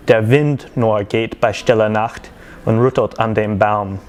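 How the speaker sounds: slow, measured verse reading in German; poem recitation. Acted. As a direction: recite it line by line as rhymed verse.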